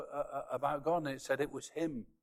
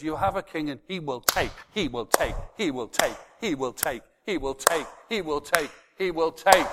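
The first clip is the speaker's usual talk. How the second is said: he will take, rising in force each time; preacher pounding the refrain; building repetition; 2 semitones higher, 6 dB louder than usual. Real, not acted. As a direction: hammer the phrase louder and louder.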